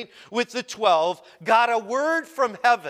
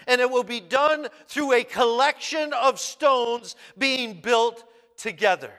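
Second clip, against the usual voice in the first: preaching. Acted. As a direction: build each line like a proclamation. Preaching paraphrase of Jesus.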